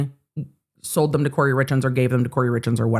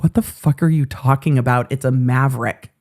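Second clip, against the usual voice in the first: unimpressed companion; 2 semitones lower than usual. Retold or imitated. Imitating travel partner's reply to the squeal, unimpressed. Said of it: "Travis was like".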